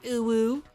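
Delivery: ooh woo exclamation. Real, not acted. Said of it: "The face just makes an ooh, woo face".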